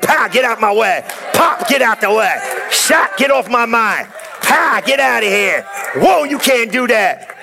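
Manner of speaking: shouted blows at the devil, slowed at the end; mock fighting shouts. Preacher acting out smacking devils with shouts.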